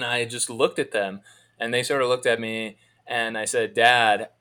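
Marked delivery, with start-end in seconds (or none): 3.7-4.3 monotone. Retold or imitated. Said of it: "I said it in my normal monotone voice".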